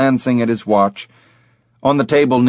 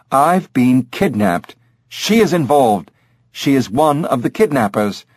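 insistent, higher-pitched accusation; emphatic; 4 semitones higher than usual. Acted. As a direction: hammer home "kidnapped" and "involved". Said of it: "he said emphatically".

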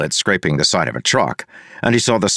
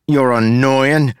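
slow, higher annoyed jab; annoyed retort; 5 semitones higher, slower than usual. A narrator's reading. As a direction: tell off a rival, drawing it out. Character insults his rival.

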